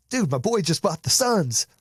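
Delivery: high-pitched, thrilled bragging on a buddy; good envy. Acted. Showing good envy of friend's purchase, excited. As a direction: gush proudly about your friend's big news. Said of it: "is good envy".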